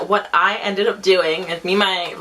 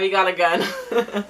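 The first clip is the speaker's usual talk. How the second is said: laughing; slower than usual. Real, not acted. Laughing while retelling gun moment.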